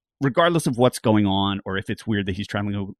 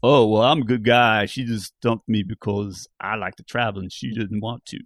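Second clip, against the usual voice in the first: lightly voiced dopey guy; a hint of a dim bro; dumb guy voice. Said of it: "I love your dumb guy voice".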